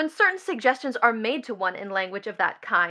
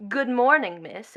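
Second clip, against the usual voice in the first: peculiar tone. Acted. Daughter coaches the client's greeting, peculiar tone. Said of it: "in that peculiar tone".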